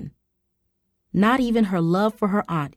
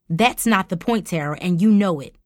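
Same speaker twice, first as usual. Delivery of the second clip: snapping. Acted. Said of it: "Mom snapped".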